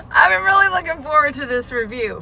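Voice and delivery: talking while chewing gum; words round a wad of gum. Real, not acted. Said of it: "I'm gonna excuse my gum".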